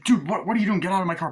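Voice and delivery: high, loud alarmed protest; mock panic. Guy yelling at kids climbing into his car, high and loud. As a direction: yelp it in alarm.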